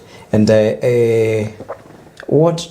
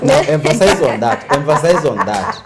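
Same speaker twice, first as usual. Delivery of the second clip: laughing; 4 semitones higher than usual. Real, not acted. Host urging guest, laughing.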